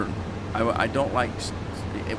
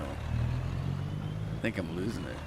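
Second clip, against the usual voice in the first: mock despair; 6 semitones lower, 8 dB quieter, much slower than usual. Real, not acted. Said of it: "I don't think so".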